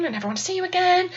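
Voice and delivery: soft awkward laugh, then quiet words; hushed, embarrassed thought; silent inner dread. Retold or imitated. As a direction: mutter it privately under an awkward laugh. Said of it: "I'm just kinda silently just like".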